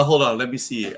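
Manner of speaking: normal talking voice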